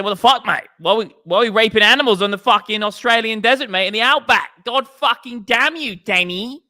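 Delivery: loud, high-pitched Aussie rant; mock outrage. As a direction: explode in hammed-up Australian indignation. Mock outrage climaxing the Australian yarn.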